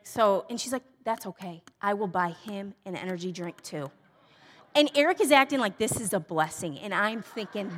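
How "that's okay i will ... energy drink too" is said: kindly woman. Retold or imitated. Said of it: "The nicest woman I've ever met".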